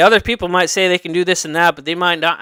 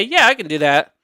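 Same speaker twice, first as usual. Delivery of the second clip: a little lazy. Shown as a demonstration. Applicant answering an interviewer without conviction, a little lazy. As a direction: agree as if you can't be bothered. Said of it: "it sounds a little lazy".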